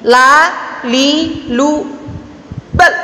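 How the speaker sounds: "bal" very short, its sound held back at the L; fully stopped L. Shown as a demonstration. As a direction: cut "bal" dead on the L. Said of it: "cara mengucapkannya begini".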